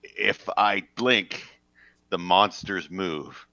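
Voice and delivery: slow, hushed paranoid confession; slow, spooked. Acted. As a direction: say it like a haunted man. Paranoid blinker character.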